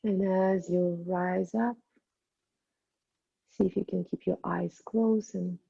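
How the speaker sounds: guided meditation. Acted. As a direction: ease the class into stillness. Teacher guides closing meditation.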